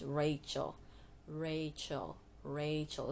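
Rachel repeated as RAY-chul; correct pronunciation. Shown as a demonstration. Vlogger drilling her sister's name Rachel, correct pronunciation. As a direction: model Rachel with a long A and CH. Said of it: "It's not Rahel or Rachel".

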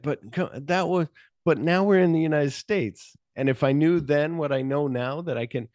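acted coaxing, voice lifted; mock pleading. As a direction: argue the case like a wheedling friend. Acted pleading argument with friend.

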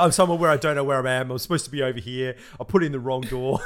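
rushed, teasing impression of a lost man; mock flustered friend. Friend mimicking Ben lost at the hotel, mock flustered. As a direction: imitate a confused mate babbling quickly.

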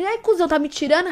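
lightly voiced street tough; little thug voice. Shown as a demonstration. Speaker showing talk learned to earn respect, mild thug challenge. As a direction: challenge him with a touch of thug attitude. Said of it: "falar que nem um marginalzinho".

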